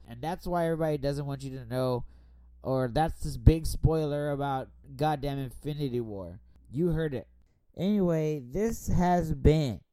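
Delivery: tipsy, loose and slurring. Real, not acted. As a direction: talk like you've had a few drinks. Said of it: "spoiling things drunk for you".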